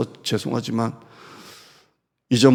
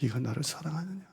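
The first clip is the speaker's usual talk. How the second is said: gentle question; 13 dB quieter than usual. Acted. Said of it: "근데 주님은 그렇게 안 하세요".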